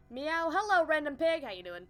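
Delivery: playful greeting. Real, not acted. Greeting chat with meows.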